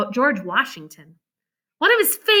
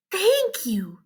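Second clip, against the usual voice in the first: put-on higher, softer grateful girl; Jane, grateful; 6 semitones higher, 4 dB quieter than usual. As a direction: thank him warmly. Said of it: "she said".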